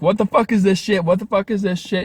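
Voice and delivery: mock furious yell at a cheating boyfriend; angry confrontation.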